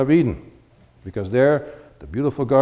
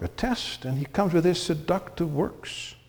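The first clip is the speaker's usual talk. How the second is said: ordinary talk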